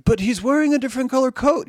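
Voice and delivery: hammed-up high protest about the coat; mock propagandist. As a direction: whine it like a ridiculous war excuse. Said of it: "And it's like".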